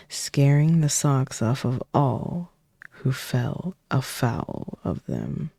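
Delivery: lively read-aloud, dropping to whispers at times; storybook reading. Acted. Streamer reading the Shrek book to chat, playful storytelling. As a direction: read the rhymes like a bedtime story.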